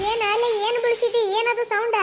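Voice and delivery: what was that noise, called out high; startled call. Acted. Mother-in-law hears a crash. (ಅತ್ತೆ ಗಾಬರಿಯಿಂದ ಕೂಗುವುದು)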